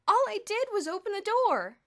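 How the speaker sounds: high, loud insistence; insisting. A narrator's reading. Perry defending himself, insisting. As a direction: protest your innocence. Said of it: "Perry kept insisting".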